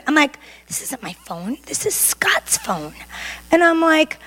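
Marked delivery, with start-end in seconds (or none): 0.7-2.9 whispered in disbelief; shocked whisper. Retold or imitated. Whispering to herself, stunned by the text. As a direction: breathe it out in shock.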